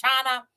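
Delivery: tuna said as "chana"; "chana", a questioning try at tuna; dialect tuna. Retold or imitated. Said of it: "what is it, chana".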